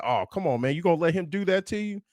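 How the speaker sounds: instigating taunt. Retold or imitated. Teammate goading the sophomore, fast mocking taunt. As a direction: needle him into a fight, speeding up. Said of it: "someone instigated and said".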